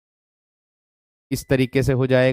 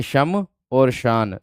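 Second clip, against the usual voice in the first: slow syllable dictation; much slower than usual. Shown as a demonstration. Teacher dictating to students, slow and split. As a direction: spell it out in slow parts, शम और शान. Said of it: "शमशान ऐसे लिखा जाएगा".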